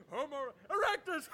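giggling through the words; laughing at the word. Real, not acted. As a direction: crack up laughing. Narrator cracks up.

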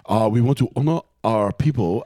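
put-on halting, botched Asian-accent impersonation; bad Asian accent. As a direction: attempt an Asian accent and miss. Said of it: "That's a horrible accent".

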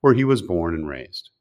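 crisp announcer read of a guest bio; host reading a scripted guest welcome; guest introduction read. Acted. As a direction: present the guest with polish and energy. Reads guest bio over music.

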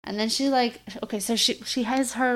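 muffled behind hands; talking into hands. Real, not acted. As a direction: speak with hands over mouth. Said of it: "sorry for talking into my hands".

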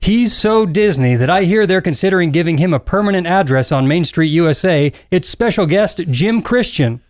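showy theme-park announcer; Bill Rogers impression. Host introducing the special guest, announcer voice. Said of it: "Bill Rogers impression".

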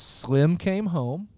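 slow, drawn-out catchphrase; slow emphatic quote. Retold or imitated. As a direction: spell it out slowly for the listeners. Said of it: "his favorite catchphrase is".

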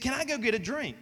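student asking. Retold or imitated. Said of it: "She said".

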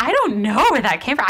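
baffled protest. Retold or imitated. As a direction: protest it in mock disbelief. Retells baffled reaction to own slip.

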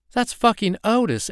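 high, loud exasperated cry; startled outburst. Acted. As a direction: blurt it out, half shocked half annoyed. Startled woman accuses Otis.

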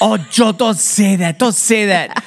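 lightly voiced scolding aunt; a hint of aunt chiding. Aunt chiding uncle, lightly voiced. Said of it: "Aunt Rose would say".

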